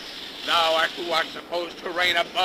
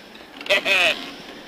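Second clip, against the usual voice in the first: a scoffing laugh; mocking laugh. Captain scoffing at the priest's God, mocking laugh. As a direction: laugh off faith with contempt.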